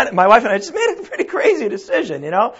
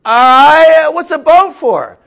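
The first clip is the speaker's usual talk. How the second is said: louder, higher, puzzled Noah; Noah, baffled and loud; 6 semitones higher, 8 dB louder, slower than usual. Acted. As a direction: Noah calling up to God, bewildered. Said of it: "And Noah says to God".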